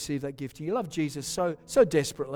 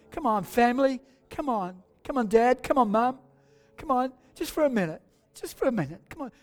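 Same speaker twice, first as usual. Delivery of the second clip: urging; 5 semitones higher than usual. Real, not acted. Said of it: "why don't you do that right now".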